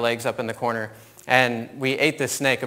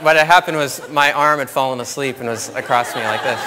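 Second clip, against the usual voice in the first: laughing while talking; 6 dB louder than usual. Real, not acted. Explaining to the audience, laughing, that his arm fell asleep. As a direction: talk through real laughter, a bit louder. Laughing at own snake mix-up.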